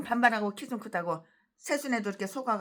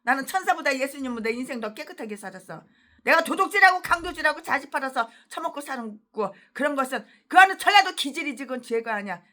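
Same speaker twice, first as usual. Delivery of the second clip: mock arrogant pastor; 2 semitones higher, 5 dB louder than usual. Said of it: "이 전라도 개목사는".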